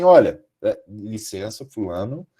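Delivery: low, soft, tactful interjection; hushed, courteous committee-member voice; polite examiner interrupting. Retold or imitated. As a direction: gently cut in on a student with formal praise. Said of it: "eu falei assim".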